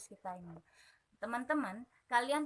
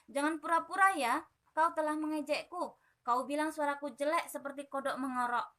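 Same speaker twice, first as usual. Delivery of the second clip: angry accusation; 4 semitones higher, 4 dB louder than usual. Acted.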